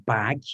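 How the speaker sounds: 'bag' ending in a small puff of breath; English-style 'bag' with an aspirated ending; released final G. Shown as a demonstration. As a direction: release the last consonant of 'bag'. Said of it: "you can feel the breath".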